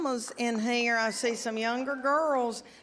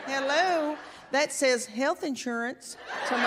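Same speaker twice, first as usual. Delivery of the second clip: sassy hello; 3 semitones higher than usual. Acted. Mock reaction to crowd.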